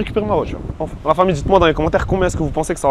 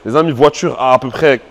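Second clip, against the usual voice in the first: usual speaking voice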